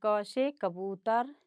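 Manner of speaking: ख से खरगोश read slowly and clearly; slow reading aloud. Shown as a demonstration. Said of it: "इसको पढ़ेंगे". (बच्चों के लिए धीरे पढ़ना)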